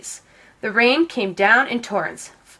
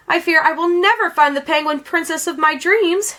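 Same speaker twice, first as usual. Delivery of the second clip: a higher, sorrowful sigh of a line; lamenting; 7 semitones higher than usual. A narrator's reading. Lonely prince laments to himself, higher and sorrowful. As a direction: voice the prince's weary longing. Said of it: "he lamented".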